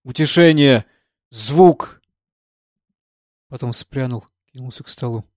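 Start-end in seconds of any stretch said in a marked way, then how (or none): 0.0-2.0 breathless repeating. Acted. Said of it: "тяжело дыша, повторял".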